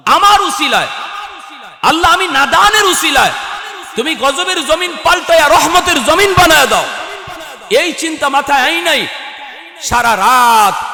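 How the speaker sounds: high, shouted plea to God; impassioned, loud sermon climax; full-force preaching. Real, not acted. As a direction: cry the prayer out at the top of the voice. Preacher voices a fervent plea.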